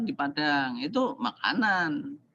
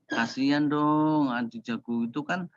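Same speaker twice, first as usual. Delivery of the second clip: mild pity. Retold or imitated. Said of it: "baru ngomong".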